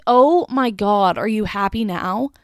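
loud, slow, fed-up mock yell; exasperated outburst. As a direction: let it burst out, exasperated but mock. Retold exasperated outburst at customer.

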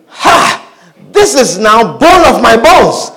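acted wonder as Adam, opening on a sharp "Ha"; amazed exclamation. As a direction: exclaim it like Adam seeing Eve for the first time. Acting Adam's first words on seeing Eve.

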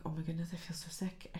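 breathy sick whisper; hushed, queasy murmur. Retold or imitated. Retelling waking up sick.

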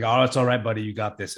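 put-on soft reassuring murmur to a child; soothing. Father soothing his hurt son close in his ear, soft and reassuring. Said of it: "I'm very quiet and I'm very, like, speaking in his ear".

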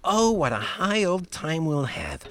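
high, loud gush easing down; delighted, overjoyed Godfather. Acted. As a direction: exclaim with giddy delight. Godfather gushes over science badge.

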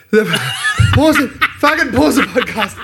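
laughing, pleading to pause. Real, not acted. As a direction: giggle through the request. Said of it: "I gotta go blow my nose".

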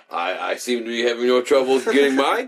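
smugly understated boast; mock-modest brag about no troubles; dry self-satisfied aside; smug remark. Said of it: "smug remark".

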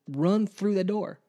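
a retold preacher's rallying cry; preacher's call. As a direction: urge the kids through the door. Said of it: "I said".

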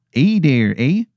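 lightly hammed Canadian accent; Angel of Canada, Canadian accent. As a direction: greet with a mock Canadian twang. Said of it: "it is a horrible Canadian accent".

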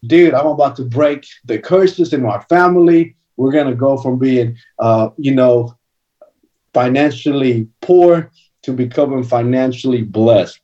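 lifted, eager retelling of his younger self; retold excitement. Young man tells mentor his dreams, mildly excited. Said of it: "And I'm excited".

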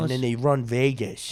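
broad mock-Italian mob accent; Italian wiseguy accent, playing it up; Italian mobster accent. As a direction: do a hammy Italian-American gangster. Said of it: "I was doing Italian".

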